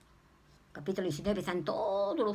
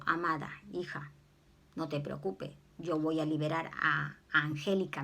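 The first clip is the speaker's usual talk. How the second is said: tender voice of the Lord; 4 semitones lower than usual. Retold or imitated. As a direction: soothe a daughter gently. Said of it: "me dijo el Señor".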